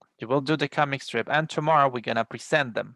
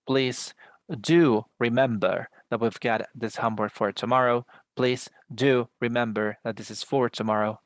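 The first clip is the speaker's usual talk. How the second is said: "do" pressed firmly before "remember"; stress on DO. Shown as a demonstration. Teacher demoing emphatic do in an imperative, stress on DO. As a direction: lean on "do" as a reminder. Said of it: "This is just the way to put emphasis".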